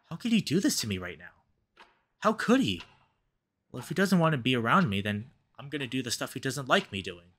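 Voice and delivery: reading the story's lines, voicing a tense couple's quarrel; game dialogue read aloud. Player voicing Devin and Cameron's quarrel, story reading. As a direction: narrate and voice each lover in turn. Reads visual novel text aloud.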